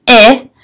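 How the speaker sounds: "I" said as short "ih", as in hill; short vowel sound. Shown as a demonstration. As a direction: sound out "I" as a clipped "ih", not "eye". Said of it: "It has one short vowel".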